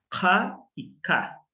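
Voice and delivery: "K y K" with a back k then a front k, slowly. Shown as a demonstration. Teacher contrasting kof and kaf, back then front k. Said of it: "La K es más atrás y la kaf es un poquito más adelante".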